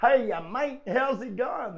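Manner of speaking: lightly imitated Australian greeting, pitched a little up; casual mock-Australian hail; Australian accent. Australian stranger greeting a fan on the stairs, lightly imitated Australian accent. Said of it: "big bald-head blooming Australian come up the stairs".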